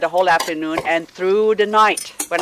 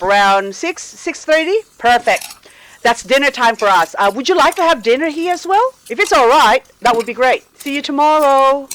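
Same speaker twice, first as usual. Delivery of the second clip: cringey phone voice; 5 semitones higher than usual. Retold or imitated. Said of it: "the voices coming out of my mouth".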